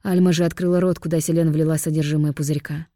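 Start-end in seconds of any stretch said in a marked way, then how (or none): none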